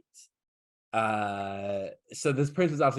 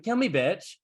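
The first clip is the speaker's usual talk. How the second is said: high-pitched acted challenge; upset, defiant; 7 semitones higher than usual. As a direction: throw it out as a mock-distraught dare. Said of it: "she's already upset".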